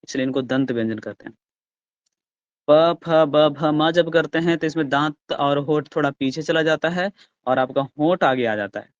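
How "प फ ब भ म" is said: loud demo. Shown as a demonstration. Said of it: "भ, म बोल के देखिए".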